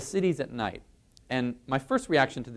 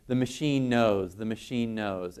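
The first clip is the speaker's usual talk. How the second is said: insistent. Retold or imitated. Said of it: "you know, insistently".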